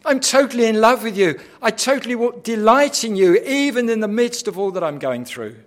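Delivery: loud, high devoted cry; fervent devotion. Acted. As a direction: pour out love through the pain. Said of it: "He's saying".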